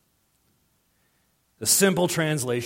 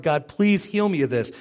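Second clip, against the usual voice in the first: louder, raised pleading cry to God; 6 semitones higher, 6 dB louder than usual. Retold or imitated. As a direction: beg God out loud for healing. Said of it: "I ple-, pleaded".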